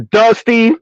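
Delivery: drawn-out, high Southern "Dusty"; southern accent. Shown as a demonstration. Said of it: "especially with the southern accent".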